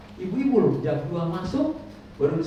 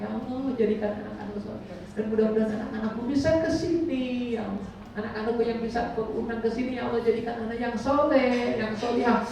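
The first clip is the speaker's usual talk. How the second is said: heartfelt prayer; 4 semitones higher than usual. Retold or imitated. Pilgrim praying for the children.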